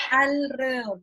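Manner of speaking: "alrededor" sounded out with a stretched first syllable; drawn-out syllables. Retold or imitated. Quoting the teacher in the class recording, sounding out "alrededor". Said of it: "cuando ella le dice alrededor".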